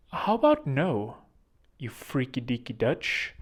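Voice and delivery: slow, drawn-out mock refusal; lightly voiced film comedy line, taken slowly; movie quote. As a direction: stretch each word of the put-down. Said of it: "if you've ever watched Austin Powers".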